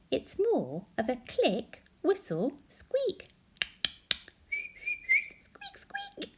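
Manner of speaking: squeaks climbing very high; dolphin squeaks. Retold or imitated. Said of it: "hearing them trying to speak".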